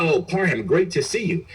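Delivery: imitating a cheerful officer; cheerful greeting.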